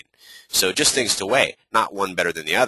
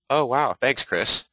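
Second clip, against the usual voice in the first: pitched-up delighted homeowner voice; grateful homeowner; 6 semitones higher, slower than usual. Retold or imitated. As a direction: gush like relieved homeowners. Homeowner voice again.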